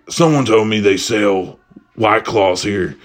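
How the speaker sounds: slow, lightly imitated superhero; a hint of deadpan caped crusader; Batman voice. Batman justifies himself to a shopper, slow mock-hero voice. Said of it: "drops the whole fucking Batman voice".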